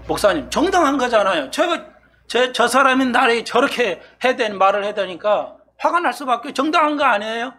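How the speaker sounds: lightly acted congregant arguing back; protesting congregant. Acts out congregant protesting to pastor.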